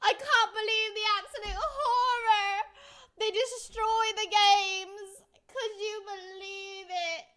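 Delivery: hammed-up sob through a half laugh; fake-cry your disbelief, slowly at the end; mock sobbing. Mock sobbing over destroyed games.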